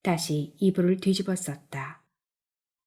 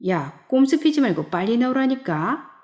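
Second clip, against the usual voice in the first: higher, insistent order; commanding; 5 semitones higher, 3 dB louder than usual. A narrator's reading. Friend on the phone urging him out to drink, commanding. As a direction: press him with a mildly bossy demand. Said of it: "명령조로 나왔다".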